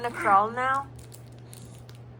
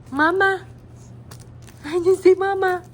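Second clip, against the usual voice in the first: eager coaxing; 6 semitones higher, 7 dB louder than usual. Real, not acted. Mother urging baby to say mama, high and loud.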